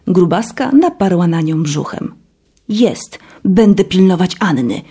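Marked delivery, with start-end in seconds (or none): 2.7-4.8 growl. Acted. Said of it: "warknęła Mercedes jak pies".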